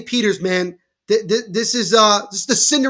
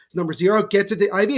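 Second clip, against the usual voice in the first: brisk live game call, rising on the big plays; lively sports commentary. Acted. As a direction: call the action as it happens.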